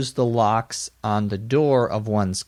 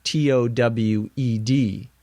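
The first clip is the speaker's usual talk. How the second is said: spelled out letter by letter. Shown as a demonstration.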